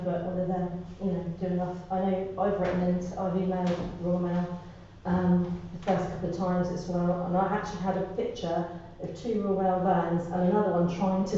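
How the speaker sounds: post-surgery throat voice; voice after throat surgery. Real, not acted. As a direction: speak through a healing throat after surgery. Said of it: "Excuse my voice, I've just had throat surgery".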